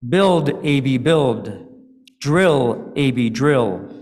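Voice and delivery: a lightly taunting chant; understated mocking sing-song. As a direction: tease him with each command. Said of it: "It was almost a mocking voice".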